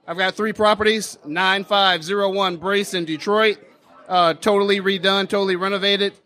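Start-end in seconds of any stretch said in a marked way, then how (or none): 0.0-3.6 repeats the line louder, closer to the mic. Real, not acted. Host asked for louder, seller projects properly. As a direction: lean in and project it. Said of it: "Closer to the mic, louder".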